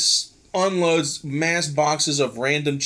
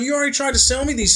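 exasperated laughing; 8 semitones higher, much faster than usual. Retold or imitated.

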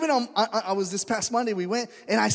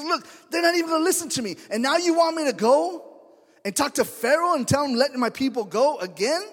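higher and fast, a pleading protest; Moses complaining; 4 semitones higher than usual. Retold or imitated. Moses protesting to God he won't be heard, high and hurried. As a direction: complain up to God in a rising rush. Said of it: "And he says".

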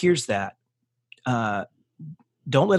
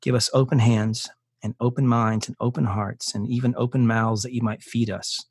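closing prayer. Acted. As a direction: pray it over every listener, unhurried.

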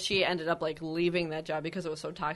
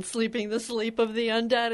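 mock-dramatic build, pitch lifting toward the end; dramatic movie line; 4 semitones higher than usual. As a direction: imitate an overdramatic horror warning. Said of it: "he said it just like that".

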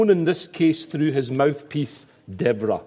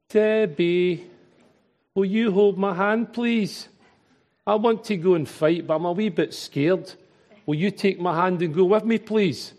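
timid Glaswegian lad, higher and pleading; scared wee boy, Glaswegian accent; 3 semitones higher than usual. Retold or imitated. Preacher voicing Barak as a frightened Glaswegian wee boy, pleading. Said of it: "I read this story in my Glaswegian accent".

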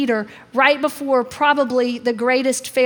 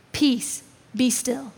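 hushed command; 3 semitones lower, 6 dB quieter, slower than usual. Acted. Jesus calming the storm, quoted softly.

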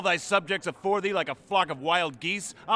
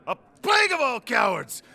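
angry. Acted. Falstaff rails at cowards.

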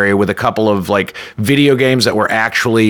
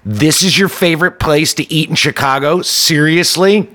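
annoyed; 5 semitones higher than usual. Retold or imitated. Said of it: "really looked visibly annoyed".

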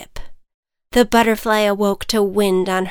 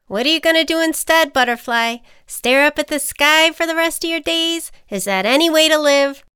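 higher, fast challenging ant; 8 semitones higher, 5 dB louder than usual. Acted. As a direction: goad her into going. Ant character voice.

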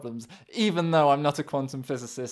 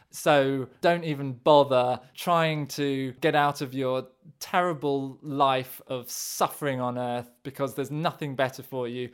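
lightly voiced sneering villain; a hint of a gloating baddie; cartoon villain. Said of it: "do a cartoon villain impression of the listener".

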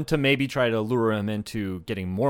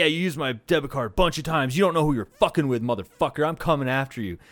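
mock-threatening Southern voice, lightly done; Southern accent. Retelling the voicemail threat about the debit card, in a light Southern accent. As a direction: imitate a menacing Southern caller. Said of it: "comes in with a hard Southern accent".

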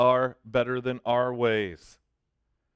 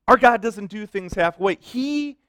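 preaching emphasis; 4 semitones higher than usual. Real, not acted. Preaching climax repeated.

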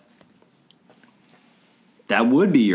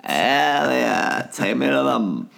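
put-on whiny valley girl alien voice; 2 semitones higher, slower than usual. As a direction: beg like a spoiled rich girl. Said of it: "really rich valley girl impression".

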